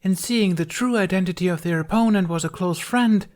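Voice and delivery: high, loud theatrical proclamation; grand stage declaration. A narrator's reading. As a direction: announce it like a ham actor on stage. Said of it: "hand on her hip and held the other in the air".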